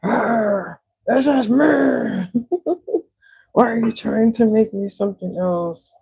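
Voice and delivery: high, growled mock outburst with a laugh; hammed-up possessed snap at people; mock snapping. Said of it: "I snap and I'd be like".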